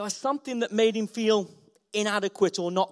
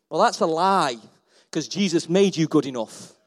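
ordinary talk

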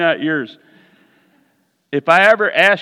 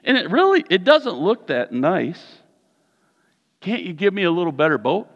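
complaining to God; 3 semitones higher than usual. Retold or imitated. Preacher acts himself complaining to the Lord, mock whine. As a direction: grumble that the boat is too small. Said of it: "and I'm like".

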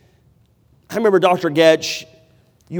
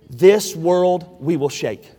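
slow declaration; slower than usual. Shown as a demonstration. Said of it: "Did you write it down?".

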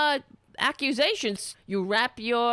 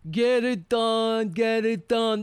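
long, stretched mock yell; mock scream; slower than usual. Host parodying people screaming at others, drawn-out mock yell. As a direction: hold each word like a parody drill order. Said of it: "they're screaming at others".

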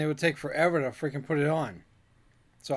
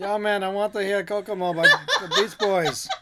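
put-on a lightly done Jamaican accent, laughing; mock Jamaican accent; 3 semitones higher, 4 dB louder than usual. Teen radio caller requests a song, with a light mock Jamaican accent. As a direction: ham a Jamaican caller a little. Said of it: "Did you try to do a Jamaican accent?".

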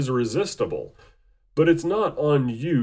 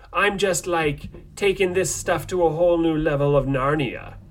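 theatrical villain, rising at times; slow theatrical villain menace. Acted. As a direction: ham up a gloating villain. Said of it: "like, a villain voice".

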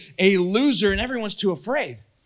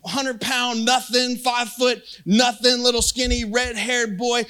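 scornful, higher and drawn-out belittling; trash talk; 3 semitones higher than usual. Retold or imitated. Goliath sizing up little David, trash-talking. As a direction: act out a giant sneering at a puny challenger. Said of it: "Goliath is trash talking him back".

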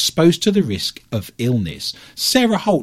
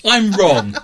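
laughing; 7 semitones higher, 3 dB louder than usual. Real, not acted. Laughing mock concession.

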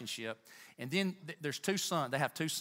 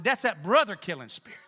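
restated with more force, louder; louder, emphatic restatement; louder repeat; 7 dB louder than usual. Shown as a demonstration. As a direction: drive it home a second time. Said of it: "I said".

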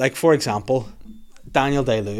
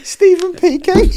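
high, loud robot voice; 6 dB louder, slower than usual. Pretend. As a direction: speak it like a speech synth. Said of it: "'Cause it's just a robot".

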